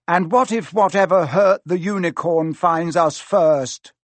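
alarmed, high-strung protest; fearful. A narrator's reading. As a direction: let fear leak into the question. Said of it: "unable to keep the fear out of his voice".

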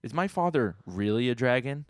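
urgent wait. Retold or imitated. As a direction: stop her at the door, alarmed. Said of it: "Rory's like".

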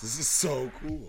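hint of an Irish accent. Shown as a demonstration. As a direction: gush it in a light Irish lilt. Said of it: "my new Irish accent".

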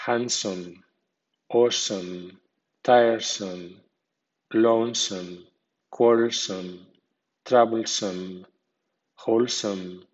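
handsome with some unstressed and reduced; weak some. Shown as a demonstration. Teacher shows learners the weak some in handsome, unstressed suffix. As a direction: say wholesome with some weak, stress on the first syllable. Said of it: "some con acento débil, así".

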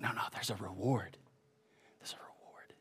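soft, low, fading almost to a whisper; gently insist, trailing into a near-whisper; hushed reassurance. Retold or imitated. Preacher voicing God's answer to the worldly, hushed.

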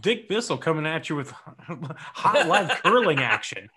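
hyped TV sportscaster; sports commentator. Pretend. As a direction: announce it like live sports. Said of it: "sounds like a sports commentator".

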